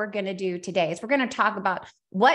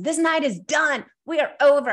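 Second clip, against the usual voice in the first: sharp, raised, louder end-of-night snap; angry outburst; 4 semitones higher, 4 dB louder than usual. Retold or imitated. Mom fed up at bedtime, raised angry voice. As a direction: mom losing her temper with wild toddlers. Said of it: "And I stormed away".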